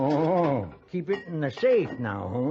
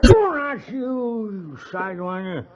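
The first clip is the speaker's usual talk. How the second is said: louder, higher sudden snap; angry snap; 5 semitones higher, 3 dB louder than usual. Acted. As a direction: snap at a pest. Drunk snapping at stranger.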